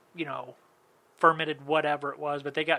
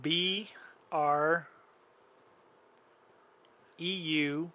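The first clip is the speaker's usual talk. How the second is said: spelling it out; 3 dB louder, much slower than usual. Shown as a demonstration.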